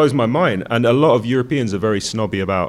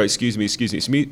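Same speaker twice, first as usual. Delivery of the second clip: soft, polite Londoner pushing past; lightly voiced polite Brit; mock-polite tube commuter; polite British excuse me; 4 dB quieter, much faster than usual. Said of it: "you go".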